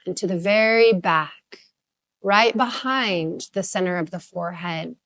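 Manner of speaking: calm, unhurried meditation guide; measured, soothing instruction, phrase by phrase; guided meditation. Real, not acted. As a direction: ease listeners into stillness with lingering pauses. Leads a guided meditation practice.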